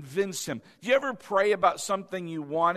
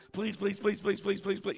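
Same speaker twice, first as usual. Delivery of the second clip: put-on softer whiny child's pleading; nagging child; 5 dB quieter than usual. Imitating a child pestering a parent, whiny. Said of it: "your children maybe doing that".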